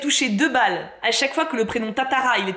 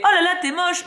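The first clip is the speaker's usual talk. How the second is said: higher, mock-blunt insult as the rude heroine; tactless blurt; 8 semitones higher than usual. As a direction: fire off a careless insult with fake innocence. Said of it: "si tu rencontres quelqu'un et que tu fais".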